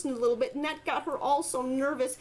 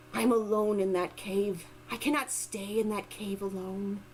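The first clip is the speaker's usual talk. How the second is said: weak voice; 4 semitones lower than usual. Acted. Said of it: "in a very weak voice said".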